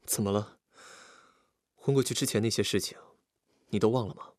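mild, gently probing question; gentle asking. Acted. Visitor at the girl's bedside, gently asking. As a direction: ask gently, pausing between phrases. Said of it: "神情温和地问他".

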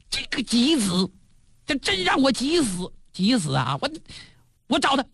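a touch of boozy rage, jumping up in pitch; drunken fury. Acted. Duke enraged by his wife's tears, mild drunken anger. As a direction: sputter like a tipsy ruler losing his temper. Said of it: "魏宣公那火噔借那酒劲儿就窜到那脑门上面来了".

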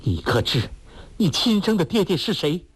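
stern, high-pitched challenge to her son; stern demand. Acted. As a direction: demand it hard, a mother finally telling the truth. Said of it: "包希若厉声说".

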